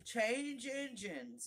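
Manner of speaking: high, drawn-out call with a touch of hoarseness; lightly voiced hoarse horse, words stretched slowly. A narrator's reading. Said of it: "a hoarse voice spoke next".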